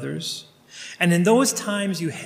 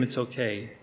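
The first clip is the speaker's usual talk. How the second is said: soothing reassurance; 5 semitones lower, 7 dB quieter than usual. Retold or imitated. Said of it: "keep saying to him".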